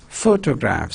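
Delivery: "photograph" with the weight on its first syllable; PHO-tograph, front-stressed; stress on PHOTO. Shown as a demonstration. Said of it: "See, stress on photo".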